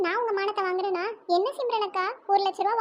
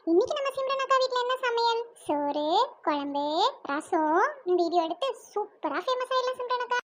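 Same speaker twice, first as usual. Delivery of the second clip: mock YouTube host. Asin pretends to host Simran's cooking channel, mock presenter voice. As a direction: pretend to open a cooking vlog.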